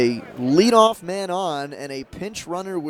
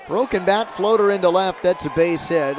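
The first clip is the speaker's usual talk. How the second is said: rising, louder play-by-play burst; excited hit call; 4 semitones higher, 5 dB louder than usual. Real, not acted. Announcer calling a bloop single, excited. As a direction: call the base hit with a jolt.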